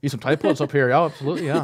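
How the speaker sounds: a hint of a muddled Scottish accent. Host jokes about Scottish makers of whisky pods, mock Scottish accent. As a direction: loose Scottish accent drifting towards Irish. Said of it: "in their Scottish accents like this".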